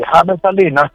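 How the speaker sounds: "James" as HA-mes, two syllables; Spanish-style James. Shown as a demonstration. Naming a colleague on air, "James" pronounced HA-mes. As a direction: say "James" the Spanish way, starting like a J in jamón. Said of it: "no le gusta que le digan James".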